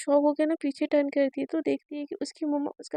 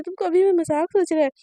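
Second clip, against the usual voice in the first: louder angry snap; angry glare; 3 semitones higher, 6 dB louder than usual. Acted. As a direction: cut off the joke, furious. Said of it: "एकदम गुस्से में नैना की तरफ देखती है". (गुस्से में डाँटती हुई)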